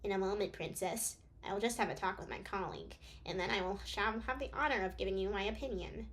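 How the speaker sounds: lightly voiced nerdy doctor; a hint of a nerdy know-it-all; nerd voice. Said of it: "I need to do a nerd voice".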